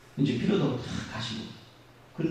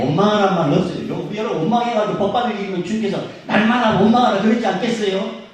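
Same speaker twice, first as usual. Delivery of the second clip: loud, higher pulpit exhortation; full-force preaching; 6 semitones higher, 7 dB louder than usual. Real, not acted. Preacher rousing the congregation, loud and fervent. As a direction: call it out to the whole church.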